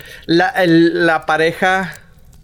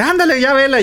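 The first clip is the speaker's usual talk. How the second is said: retold urging; 9 semitones higher than usual. Acts sister urging her to watch.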